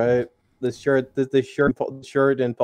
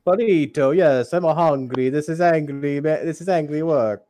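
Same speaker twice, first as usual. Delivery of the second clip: put-on angry Italian accent; 2 semitones higher than usual. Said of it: "an angry Italian accent".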